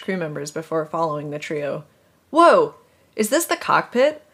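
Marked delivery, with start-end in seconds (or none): 2.3-4.2 high excited shriek. Acted. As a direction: shriek over a siren. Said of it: "Horatio shrieked over the siren".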